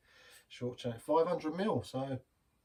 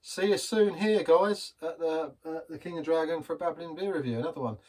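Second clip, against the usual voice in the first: higher, louder, hyped presenter sign-off; cheery sign-off; 4 semitones higher, 5 dB louder than usual. Acted. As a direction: call it out to the viewers like a pub host. Upbeat channel sign-off.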